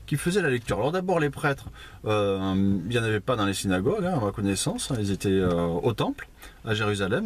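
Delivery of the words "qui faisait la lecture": incredulous objector. Retold or imitated. Listeners object about the priest's reading, incredulous and high-pitched. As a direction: imitate a listener protesting, pitched well up. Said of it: "vous dites, oui".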